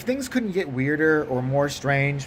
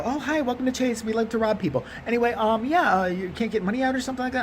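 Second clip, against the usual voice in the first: higher, chirpy customer-service voice; friendly teller; 4 semitones higher than usual. Acted. Teller welcoming a customer to Chase, mock chirpy. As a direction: greet cheerfully as a mock bank teller.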